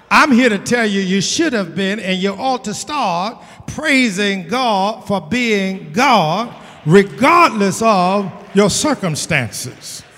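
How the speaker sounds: forceful sermon, leaning on key words; insistent preacher's exhortation; emphatic preaching. Real, not acted. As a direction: drive it home to the congregation.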